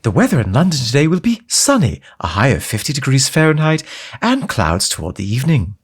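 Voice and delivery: put-on English RP accent. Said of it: "English R P received pronunciation".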